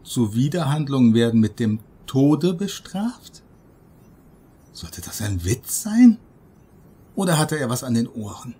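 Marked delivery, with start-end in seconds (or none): 0.0-3.4 steigende, fassungslose Frage; ungläubig wiederholt. Retold or imitated. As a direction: zitiert den Satz ungläubig. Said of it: "Was hatte die Stewardess da eben gesagt?". (ungläubig nachgefragt)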